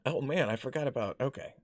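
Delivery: usual speaking voice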